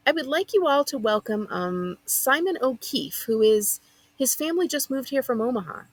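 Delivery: high, gushing teacher voice, all sympathy. Acted. Teacher presents the new kid to the class, gushing. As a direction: introduce him like a poor lost lamb. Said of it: "sounding like she's about to melt into a puddle of sympathy".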